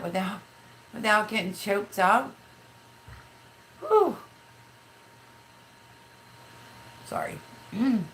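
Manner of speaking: really fighting back tears; choked up. Real, not acted. Streamer remembering her late mother-in-law, choked up. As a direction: pitch climbing, breaking off to recover. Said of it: "that chokes me up".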